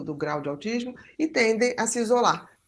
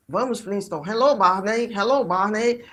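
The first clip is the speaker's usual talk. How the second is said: lightly mimicked Flintstones catchphrase, louder; cartoon character imitation; 3 dB louder than usual. Child with autism repeating Flintstones lines, lightly imitated cartoon voice. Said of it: "ela reproduz exatamente aquele desenho com a entonação".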